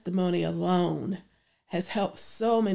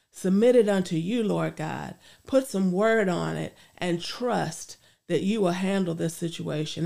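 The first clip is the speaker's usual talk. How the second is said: earnest spoken prayer. Acted. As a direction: pray it out sincerely. Leads a closing prayer.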